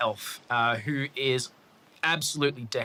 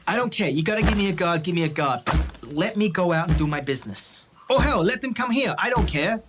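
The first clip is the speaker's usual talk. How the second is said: demanding outburst; 4 semitones higher than usual. Acted. George demands a guard, angry.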